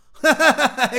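a loud, amused laugh that falls away; hearty laugh. Acted. Master laughs at his young apprentice's grown-up words, loud and amused.

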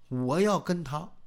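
plain reading voice

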